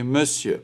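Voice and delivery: مسیو with a rounded "eu" in the first syllable, not "on"; teacher modelling French "monsieur" as مسیو, vowel un-nasalised; exception pronunciation. Shown as a demonstration. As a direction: say مسیو as "meu-syeu", no nasal.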